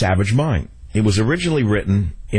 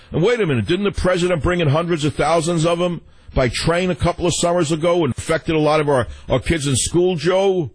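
folksy citizen voice; 7 semitones higher than usual. Retold or imitated. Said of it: "the people will start to say".

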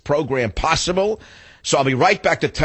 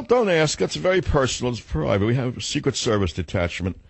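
put-on old Jewish accent; 3 semitones higher than usual. Host playing Foxman bragging of White House dinner, Jewish accent. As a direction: ham up a fussy old Jewish man. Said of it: "You like my Foxman voice?".

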